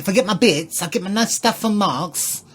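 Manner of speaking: put-on lightly done Essex accent; a hint of Essex in the vowels. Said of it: "If you deliver that in an Essex accent".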